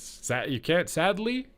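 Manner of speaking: sarcastic. Shown as a demonstration. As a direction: drip sarcasm on "sadly" with a high rise. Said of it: "I say sadly, sarcastically".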